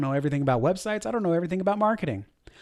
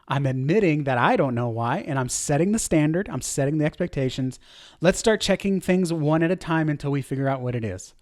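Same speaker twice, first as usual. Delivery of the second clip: calm confidence. Shown as a demonstration. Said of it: "That is confidence".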